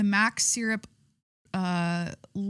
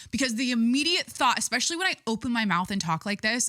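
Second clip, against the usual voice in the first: real forceful chest voice, slightly raised; forceful, full chest; 3 semitones higher than usual. Real, not acted. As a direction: speak up obnoxiously from the chest. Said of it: "I speak with my full fucking chest".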